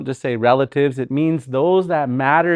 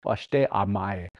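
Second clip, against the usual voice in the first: slow demo; 5 semitones lower, 7 dB quieter, slower than usual. Shown as a demonstration. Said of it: "How could I say".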